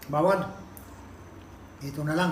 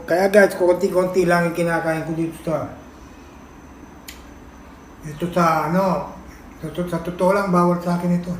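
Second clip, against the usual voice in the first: loud; 5 dB louder than usual. Real, not acted. Loud aside about the shrimp.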